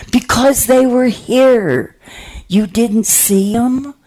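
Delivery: high, slow, earnest insistence; insistent. Retold or imitated. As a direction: plead it high and slowly. Insisting she saw angels.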